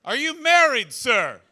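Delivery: high, loud, desperate pleading; pleading apology. Retold or imitated. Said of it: "So I just went".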